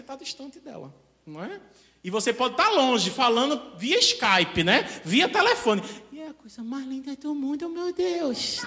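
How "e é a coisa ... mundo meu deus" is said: tender gushing. Retold or imitated. Sweet talk to distant lover.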